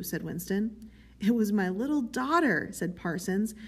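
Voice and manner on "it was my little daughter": higher-pitched, rueful pride; doleful pride. A narrator's reading. Parsons names who denounced him, with doleful pride. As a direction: own up with mournful pride. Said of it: "with a sort of doleful pride".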